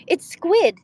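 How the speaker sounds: high, loud triumphant reveal; yelling. Acted. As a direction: yell it right in their face. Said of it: "Father then yelled in my face".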